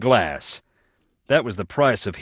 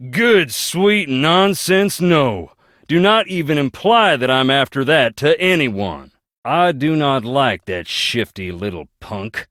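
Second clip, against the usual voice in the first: sharply raised, loud indignant denial, the first words slowed; indignant outburst; 6 semitones higher, 5 dB louder than usual. Acted. A man refusing to be accused, outraged loud denial. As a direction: bristle and shut the suggestion down hard. Denies an accusation about Clara.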